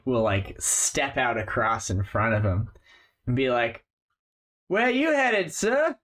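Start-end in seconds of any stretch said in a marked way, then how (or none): 4.7-6.0 high sly voice of a street thug stopping him; a menacing stranger blocking the way; alley thug. Acted. GM voicing an alley thug stopping the traveler, sly and high.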